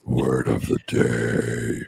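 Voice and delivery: low, slow, sung with a mouthful; singing through a mouthful of food; mouth full. Real, not acted. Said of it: "caught you with your mouth full".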